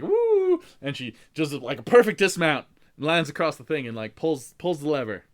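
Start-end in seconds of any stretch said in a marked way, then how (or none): 0.0-0.6 very high loud woo; excited cheer. Retold or imitated. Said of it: "they're like".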